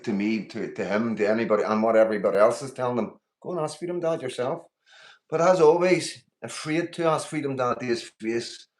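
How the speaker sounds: rising into a loud angry rant; heated call-out. Real, not acted. Streamer to TikTok hater, loud angry call-out. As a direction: raise the voice and call him out.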